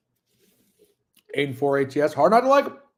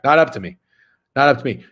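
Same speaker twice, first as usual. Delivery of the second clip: firm refusal; 7 dB louder, faster than usual. Real, not acted. Annoyed reply to chat request.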